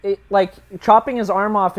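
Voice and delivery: talking through a laugh. Real, not acted. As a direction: laugh while saying it. Laughing after the joke.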